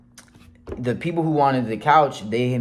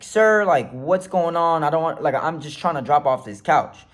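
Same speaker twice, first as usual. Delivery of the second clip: polite appeal settling to usual pitch; very respectful. Retold or imitated. Driver explaining couch drop-off to police, respectful appeal. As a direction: explain yourself courteously to an officer. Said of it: "I'm speaking to them very respectfully".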